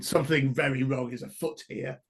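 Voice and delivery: magically amplified voice. Acted. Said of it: "as I try and whisper to you in my booming voice".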